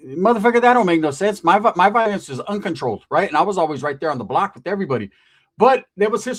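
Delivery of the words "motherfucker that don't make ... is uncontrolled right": loud, higher-pitched disbelief; raised-voice scoff; indignant retort. Retold or imitated. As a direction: call out a nonsense excuse, loudly. Scoffing at friend's excuse.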